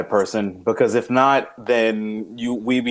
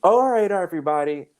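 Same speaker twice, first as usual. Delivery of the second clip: imitating wife; faster than usual. Wife as military commander.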